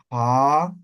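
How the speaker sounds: "ka" clipped and popped; explosive ka. Shown as a demonstration. Teacher shows the explosive ka in review. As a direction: burst "ka" out tight. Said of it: "la explosiva".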